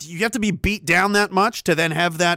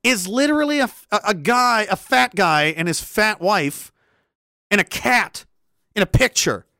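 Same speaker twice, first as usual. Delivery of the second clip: mocking scorn; 5 semitones higher than usual. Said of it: "I was like".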